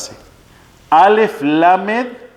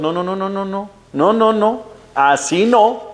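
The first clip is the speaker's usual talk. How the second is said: retold objection; 5 semitones higher than usual. God cuts off Moses' complaint.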